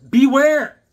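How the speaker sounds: "Beware!" shouted high and loud; spooky title shout. Shown as a demonstration. Reading the comic title aloud as a big spooky shout. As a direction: boom out "Beware!" like a horror host. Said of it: "uh, Beware".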